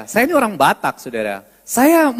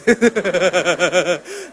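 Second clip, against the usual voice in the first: laugh; 6 semitones lower than usual. Real, not acted. Laughs after mock yell.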